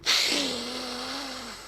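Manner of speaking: mock sniffing. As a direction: act out a drawn-out greedy sniff. Acting Odin sniffing.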